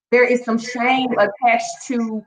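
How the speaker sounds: slow, weighted repeat of "There is some shame attached to"; slowed emphatic repeat. Shown as a demonstration. Stressing the point to her live audience, slow and weighted. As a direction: lean on each word of "There is some shame attached to", slowly. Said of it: "very transparent and very real".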